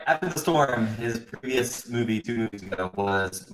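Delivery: wobbly warbling call audio; robotic, glitching voice over a bad connection; glitchy call audio. Real, not acted. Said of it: "Your audio is glitching out like you just walked into a, a robot harem".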